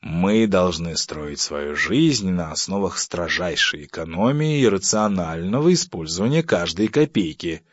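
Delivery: slow, measured pompous reply; sedate. Acted. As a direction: pronounce it with grave dignity. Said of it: "степенно ответил". (степенно, с расстановкой)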